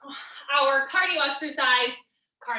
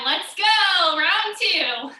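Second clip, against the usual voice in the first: energetic; 4 semitones higher, 4 dB louder, much slower than usual. Real, not acted. Coach kicks off the round.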